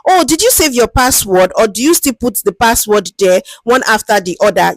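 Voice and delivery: a chatty, friendly hello to an elder; lightly voiced friendly researcher. Shown as a demonstration. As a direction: ease in gently like greeting a street cleaner you respect. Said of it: "You ask them".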